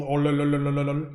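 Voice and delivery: rolling lilting syllables; mock Malayalam rhythm. Shown as a demonstration. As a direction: roll out the syllables in a lilt. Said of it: "The cadence of Malayalam is like".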